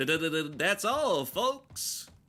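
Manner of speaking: low, slow, swooping cartoon voice, stuttering the d. Ordering dessert while joking around: Porky Pig voice. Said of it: "I'm speaking like Porky Pig".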